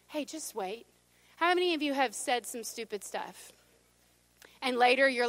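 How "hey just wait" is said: much softer, gently restraining; hushed whisper. Acted. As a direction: drop the voice to a quiet caution. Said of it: "God will always whisper to you".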